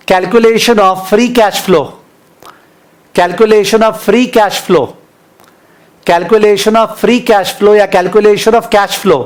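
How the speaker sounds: very slow, each word set apart for writing; teacher reading a title aloud for notes; slow dictation. Shown as a demonstration. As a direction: dictate the heading slowly. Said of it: "जो भी लिख रहे हैं मन में".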